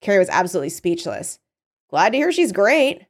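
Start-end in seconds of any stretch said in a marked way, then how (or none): 1.9-3.0 higher, mock-pleased sarcasm; sarcastic. A narrator's reading. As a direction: say it sarcastically, pitched up with a rising end. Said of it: "Margot said sarcastically".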